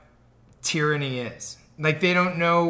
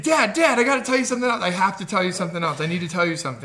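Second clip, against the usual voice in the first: put-on excited child interrupting; 2 semitones higher, faster than usual. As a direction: pester dad like a bursting-to-talk kid. Child interrupting a parent, retold.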